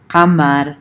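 "kamar" starting with a q far back in the throat; "kamar" as qamar, with uvular q; Arabic q kamar. Shown as a demonstration. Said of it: "can be pronounced".

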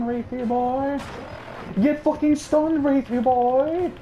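taunting. Real, not acted. Taunts killer while waiting to stun.

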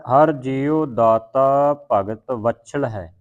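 slow line with ਵਛਲ given added weight; weighted pronunciation. Shown as a demonstration. Teacher correcting the verse, slow with weighted ਵਛਲ. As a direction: press on ਵਛਲ, doubling its middle consonant. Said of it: "ਜਿਹੜਾ ਵਛਲ ਇੱਥੇ ਅਧਿਕ ਲਾ ਕੇ ਉਚਾਰਨ ਕਰਨਾ".

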